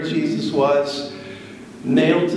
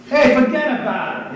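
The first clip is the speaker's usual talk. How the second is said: put-on higher, joking New York accent; 7 semitones higher than usual. Preacher joking about Peter's accent, mock New York accent. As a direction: toss it out like a caricature New Yorker. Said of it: "he must have been from New York".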